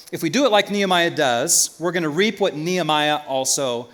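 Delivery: usual speaking voice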